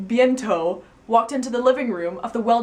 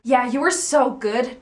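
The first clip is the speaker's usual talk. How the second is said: slow, louder, lusty compliment; hornily; 4 semitones higher, 5 dB louder than usual. Acted. Doodle flirting with Louis, slow and mock-sultry. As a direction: lay it on thick, slow and suggestive. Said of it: "Doodle added hornily".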